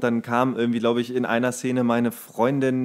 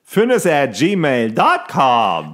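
slow, louder, every part spelled; slow spelled-out address; 6 dB louder, much slower than usual. Shown as a demonstration. A host slowly dictates the contact email to listeners. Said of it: "spelling address for listeners".

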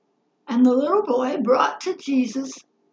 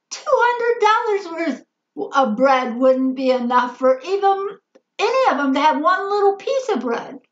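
higher, mildly exasperated quote; exasperated doubt; 4 semitones higher than usual. Retold or imitated. Disciple trying to work out feeding the crowd, doubtful. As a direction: voice a disciple's mild disbelief at the task. Voicing Philip doubting it can be done.

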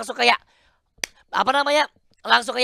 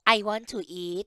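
English tune demo; 3 dB quieter, slower than usual. Shown as a demonstration. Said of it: "Oh, ada nadanya".

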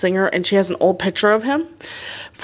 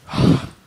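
gasp; 4 dB louder than usual. Pretend. Mock amazement at bathroom.

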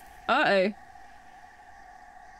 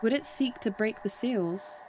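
soft, measured dramatic reading; hushed story-reading voice; game dialogue read aloud; 5 dB quieter than usual. Acted. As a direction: read it softly as a solemn question. Reads game character's dialogue aloud.

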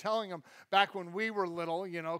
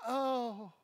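mock letdown, trailing softer; dashed; 4 dB quieter than usual. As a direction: act out a mild crushed disappointment. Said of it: "and you're dashed".

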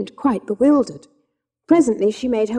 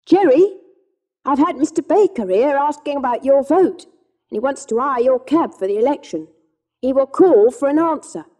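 a lively, higher wife's voice; Polly rushes her news out; eager wife; 5 semitones higher, 4 dB louder than usual. Acted. Wife tells Jerry about the visitor, eager and lively.

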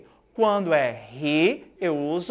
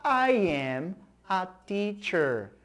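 model sentence; 4 dB quieter, slower than usual. Shown as a demonstration. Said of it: "Repitam comigo".

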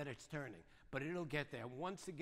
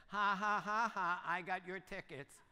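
teasing laugh; 5 dB louder, slower than usual. Retold or imitated. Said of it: "my grandson who sent me a text".

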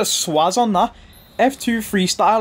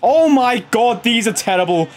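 louder incredulous take; exasperated outburst; 5 semitones higher, 3 dB louder than usual. Real, not acted. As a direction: blast the repeat in disbelief. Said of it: "repeats the line with force".

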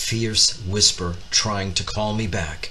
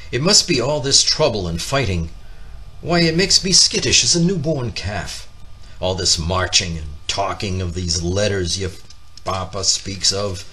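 anxious Mama. Acted. Mama frets about the fighting.

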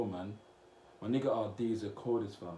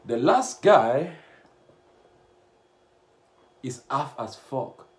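mocking read; 3 semitones higher, 11 dB louder, slower than usual. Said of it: "Next comment said".

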